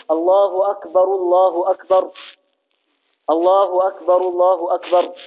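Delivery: first أكبر ends in -ru, linked onto the next الله; voweled R in the first أكبر, silent R in the second; first R with damma. Shown as a demonstration. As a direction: join the pairs as akbaru-llahu akbar. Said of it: "ولو رفع الراء الأولى".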